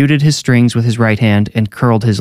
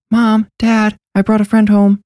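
put-on girl shouting; 12 semitones higher than usual. A narrator's reading. Neve announcing a friend to her parents, high girlish call. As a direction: pitch it way up, a restrained child's shout.

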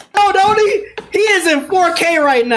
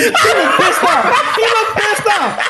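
laughing; 5 semitones higher than usual. Real, not acted. Laughing at the dog on camera.

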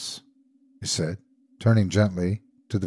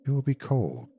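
tender concern, a little softer; 4 semitones higher, 4 dB quieter than usual. A narrator's reading. Old man urging his wife back to bed, tender. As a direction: coax gently, understated. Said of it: "he said tenderly".

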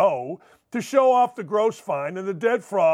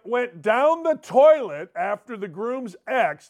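ordinary delivery

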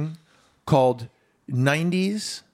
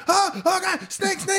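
put-on much higher, shrieking kids spotting a snake; hammed-up frightened kids; mock kids' panic; slower than usual. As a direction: squeal it like a scared child. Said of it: "my kids are always like".

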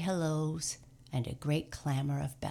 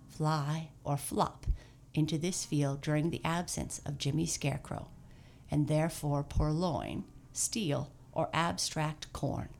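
formal proclamation. A narrator's reading. Santa writes formal notice.

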